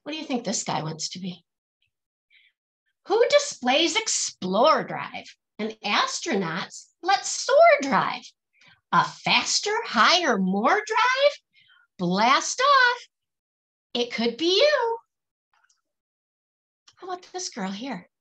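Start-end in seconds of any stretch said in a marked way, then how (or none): 3.1-15.0 rhythmic, lilting picture-book verse; reading to children. Acted. Teacher reading a rhyming picture book aloud to her class, lilting and rhythmic. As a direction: bounce each rhyme for the kids, then land the refrain.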